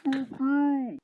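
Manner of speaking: slow, drawn-out angry curse. Acted. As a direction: lay into him, dragging each word. Fed-up character snaps at creator.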